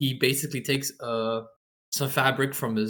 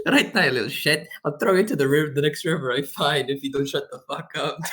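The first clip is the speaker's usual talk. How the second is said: put-on slightly louder gruff threat to a child; gruff old man; 2 semitones higher, 5 dB louder than usual. Player voicing the gruff captor threatening the child. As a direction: growl at the kid to shut up. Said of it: "you need to do the voice".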